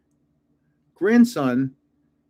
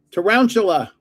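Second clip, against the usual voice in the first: louder eager guess of the name; bright confident guess; 4 semitones higher, 5 dB louder than usual. Real, not acted. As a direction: call it out eagerly.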